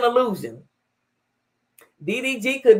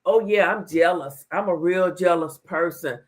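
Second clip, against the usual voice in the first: her normal voice; 6 semitones lower than usual. Retold or imitated. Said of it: "Haley talking in her normal voice".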